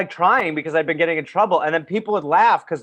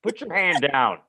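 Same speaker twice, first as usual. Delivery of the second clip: mock stern teacher; 3 semitones higher than usual. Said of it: "He's like".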